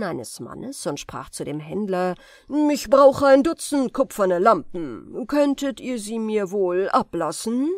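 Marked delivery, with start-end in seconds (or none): 2.7-7.7 lauter Zauberer, der bestellt; fordernder Kunde. Acted. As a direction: Zauberer verlangt Lampen vom Händler. Zauberer beim Händler. (Zauberer zum Händler, laut und bestimmt)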